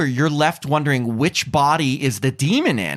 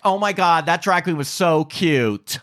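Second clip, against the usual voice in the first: impressionist; 3 semitones higher, slower than usual. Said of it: "If I were turning into you".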